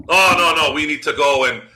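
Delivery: scornful laughing imitation of a clueless fan; mocking parody. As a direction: ham up the dumb argument while laughing. Mocking a caller's dumb take.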